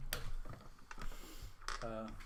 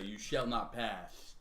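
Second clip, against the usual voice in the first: slowly intoned wizard's command; in-character battle line; much slower than usual. Acted. Player's character hits an enemy with the staff, slow mock-grand declaration. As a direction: draw each word out, only mildly theatrical. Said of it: "and I say".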